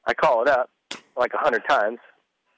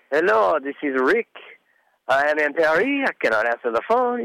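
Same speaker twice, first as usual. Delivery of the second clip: imitating a racer's French-accented voicemail greeting; 4 semitones higher than usual. Retelling Ricky's voicemail greeting to the host, in a mock French accent. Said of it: "he talked in this French accent".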